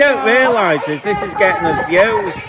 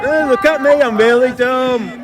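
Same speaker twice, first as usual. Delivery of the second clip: higher, slow mocking dimwit voice; mock dumb voice; 4 semitones higher, slower than usual. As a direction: play the protester as a fool.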